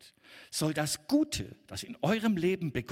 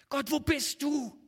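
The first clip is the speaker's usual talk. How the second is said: higher, slow anguished plea; lament to God; 9 semitones higher than usual. Acted. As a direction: call out to God slowly, hurting. Crying out in trial.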